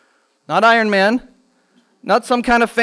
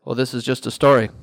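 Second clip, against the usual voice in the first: a hint of a dismissive skeptic, lower; mocking a skeptic; 8 semitones lower, 3 dB quieter than usual. Teacher mimicking an online skeptic for the children, lightly dismissive. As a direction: lightly imitate a know-it-all brushing it off. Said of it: "you know what some goofy person said online".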